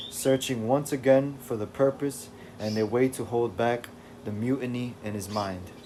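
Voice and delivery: steady recap read for the stream; story narration. A narrator's reading. Streamer reading the recap to chat, steady narration. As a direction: read it like a comic book intro. Reads the comic recap aloud.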